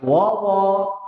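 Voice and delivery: "wawa" with both vowels rounded and full, like "wowo"; both wawu heavy. Shown as a demonstration. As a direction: say "wawa" fully tafkhim as "wowo". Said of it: "dua-duanya isti'la". ("wawa" dibaca tebal semua, "wowo")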